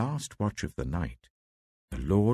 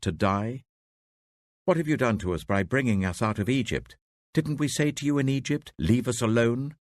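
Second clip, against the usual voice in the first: raised, louder and pleading; frightened complaint; 3 semitones higher, 3 dB louder than usual. Acted. Terrified Israelites protesting to Moses, louder. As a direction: accuse Moses in panic.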